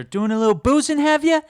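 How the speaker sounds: mock patrol officer. The patrol officer scolding the driver, in a high hammy voice. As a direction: bark it like a pompous patrolman. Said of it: "the patrol officer".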